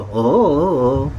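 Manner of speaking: slow drawn-out hum. Shown as a demonstration. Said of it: "하모니카를 좌우로 해야지".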